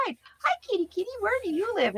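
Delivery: high sweet kitty call; high-pitched call to a stray cat; calling a kitten. Retold or imitated. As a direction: coax the kitty gently. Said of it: "So I went outside".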